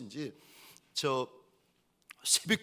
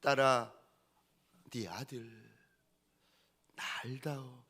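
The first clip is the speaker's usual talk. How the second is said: voice of God; 3 semitones lower, slower than usual. Retold or imitated. God to a mother at dawn, hushed and solemn. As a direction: imitate God asking gently, with long pauses. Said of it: "하나님이 그날 새벽에 그 어미에게 오셔가지고".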